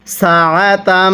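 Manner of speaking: সাআতাম with the doubled m hummed through the nose; ghunnah on mim. Shown as a demonstration. Teacher shows ghunnah on the mim, slow recitation. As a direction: hum the মিম of সাআতাম. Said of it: "গুন্নাহ করা ওয়াজিব".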